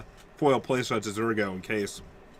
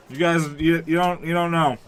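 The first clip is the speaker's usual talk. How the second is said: mouth full; 3 semitones higher, 4 dB louder than usual. Real, not acted. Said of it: "I've been talking with my mouth full".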